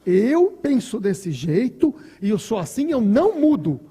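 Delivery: stubborn person. Retold or imitated. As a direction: plant your feet and refuse to change. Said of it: "Tem gente que fala assim".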